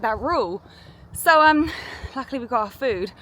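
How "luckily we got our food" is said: breathless from walking uphill; talking while winded on a hill; out of breath. Real, not acted. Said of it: "I'm out of breath".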